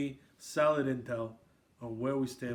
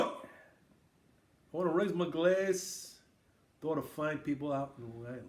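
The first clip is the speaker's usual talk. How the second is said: put-on Long Island accent; 3 dB quieter, slower than usual. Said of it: "Is that your Long Island accent?".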